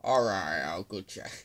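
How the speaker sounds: impression, loud start dropping off; lightly voiced character, falling away after a loud opening; Eugene. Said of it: "That's my best Eugene".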